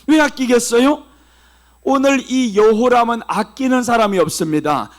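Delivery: ordinary talk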